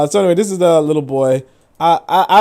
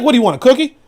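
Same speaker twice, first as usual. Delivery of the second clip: higher, mocking jab; sarcastic; 10 semitones higher, 5 dB louder, faster than usual. Telling off a Twitter user, sarcastic and higher. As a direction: sneer at the brag. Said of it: "So I'm like".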